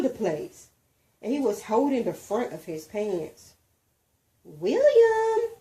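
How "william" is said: high, loud call of a name; voiced teacher calling across the room. A narrator's reading. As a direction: call the boy's name sharply.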